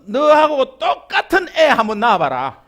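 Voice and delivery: loud, slowly drawn-out nagging mother; exasperated parent scolding. Retold or imitated. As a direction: nag your child with a half laugh. Parent scolding child quote. (자녀를 꾸짖는 답답한 부모의 잔소리)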